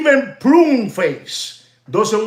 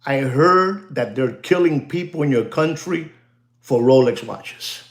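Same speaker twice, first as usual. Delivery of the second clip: straight-faced telling; 6 semitones lower than usual. Shown as a demonstration. Telling the UK watch dealers, low and deadpan. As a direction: say it dead serious and look them in the eye. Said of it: "You, you tell them just like this".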